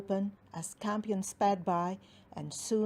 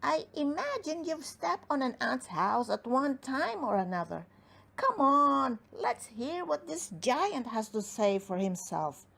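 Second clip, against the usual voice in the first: gnome voice; 4 semitones higher than usual. Acted.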